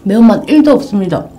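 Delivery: talking while wiping lips; napkin at mouth. Real, not acted. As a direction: through a tissue. Seen 1: From 3.4s she presses a tissue to her lips while speaking.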